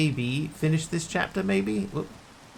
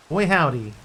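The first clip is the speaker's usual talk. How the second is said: a light mock southern accent, louder; 5 dB louder than usual. Streamer joking about fake accents, mock southern accent. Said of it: "my deep southern accent".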